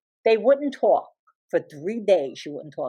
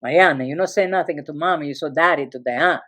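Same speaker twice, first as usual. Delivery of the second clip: confiding father; 5 semitones lower than usual. Retold or imitated. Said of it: "and he goes".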